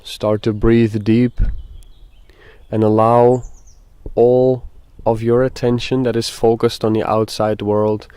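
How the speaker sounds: measured meditation guide, long pauses between phrases; guided meditation. Acted. Guide asks listeners to breathe and settle, guided meditation. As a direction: lead them gently through it, leaving space.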